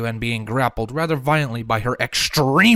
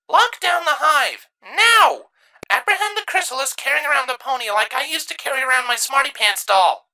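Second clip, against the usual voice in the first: commanding order; 13 semitones higher than usual. A narrator's reading. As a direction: bark orders at the hive. Queen orders the hive.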